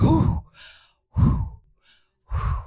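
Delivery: savouring exhales, spaced out; overwhelmed "whew", acted out; blissful whew. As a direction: mimic blissful puffs of relief. Acting out dad savouring gum.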